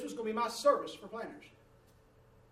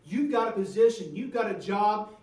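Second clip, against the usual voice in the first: preaching loud; 7 dB louder than usual. Real, not acted. Preacher driving the point home.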